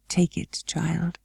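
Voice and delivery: soft, hushed and kind; with a smile. A narrator's reading. The guardian granting Mary her wish, soft and kind. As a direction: give it tenderly. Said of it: "with something like a smile".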